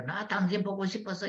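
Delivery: high-pitched wifely pining; affectionate longing. Acted. Wife to husband instead of complaining, affectionate longing. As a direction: tell him sweetly you missed him.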